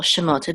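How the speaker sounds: Shemot with the accent on mot; stress on last syllable. Shown as a demonstration. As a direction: put the weight on the end of Shemot. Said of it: "accent of the words on the last syllable".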